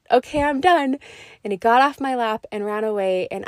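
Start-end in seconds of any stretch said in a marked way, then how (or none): 0.1-1.0 smiling. Retold or imitated. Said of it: "with this big smile and said".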